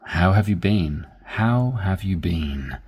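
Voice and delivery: low, serious "How have you been?"; sober, weighty question; a bit serious. Shown as a demonstration. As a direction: ask it gravely. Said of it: "It's a bit serious".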